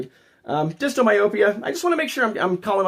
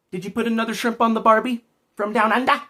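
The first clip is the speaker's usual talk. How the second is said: put-on Australian accent; 3 semitones higher than usual. Streamer teasing an Australian viewer, mock Australian accent. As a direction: tease in mock Aussie. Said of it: "that pisses Australian people off".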